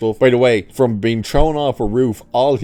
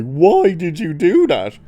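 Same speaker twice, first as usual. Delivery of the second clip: high, loud, slow mock scream; retold scream; 10 semitones higher, 4 dB louder than usual. Reviewer imitating Daredevil screaming at Bullseye, high and loud. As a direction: yell it out slowly, as a grieving hero would. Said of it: "literally screams at Bullseye".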